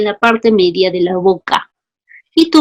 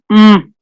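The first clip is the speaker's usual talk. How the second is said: closed-mouth hum; 6 dB louder than usual. Shown as a demonstration. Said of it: "¿Cómo pronunciaría?".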